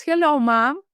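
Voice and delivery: put-on high, loud greeting in the baby's voice; with emphasis. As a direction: say it bright and emphatic, as if the baby speaks. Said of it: "I said here with an emphasis".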